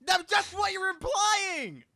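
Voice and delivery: high, drawn-out yell of protest; loud, squawking argumentative shout; shouted accusation. Real, not acted. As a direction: yell it back at full volume. Shouting back in banter argument.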